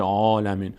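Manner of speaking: عالمین with a dark, full "aw" first vowel; full, rounded long a in عالمین; wrongly heavy vowel. Shown as a demonstration. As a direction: say عالمین too heavily, as the mistake. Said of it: "اما پر نمیشه".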